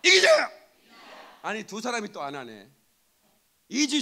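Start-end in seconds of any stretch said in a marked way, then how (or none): 0.0-0.5 high, loud victory slogan; full-force army salute yell; military rallying shout. Shown as a demonstration. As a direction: lead the congregation in a soldier's cry. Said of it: "이기자, 한번 합시다".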